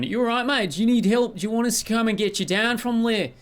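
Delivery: high, friendly tree voice, calling up; chirpy high-pitched trees offering help; talking trees. Acted. Trees call up to a stranded climber, high and friendly. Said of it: "are just going".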